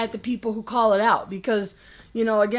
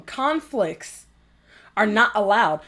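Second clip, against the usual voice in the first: mock official edict, broken by a pause; mocking quote; slower than usual. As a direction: mimic their rule, pausing after "Conflicts". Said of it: "Listen to them".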